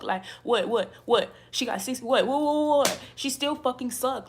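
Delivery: real angry outburst, rising to loud repeated challenges; angry rant. Real, not acted. Angry rant about someone's friend.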